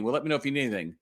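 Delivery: lightly voiced stock salesclerk line, breezy; a hint of a routine, polite clerk brush-off. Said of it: "I hear people".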